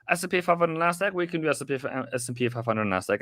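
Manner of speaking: panting between words; breathless after running; out of breath. Real, not acted. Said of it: "I'm sorry if I'm out of breath".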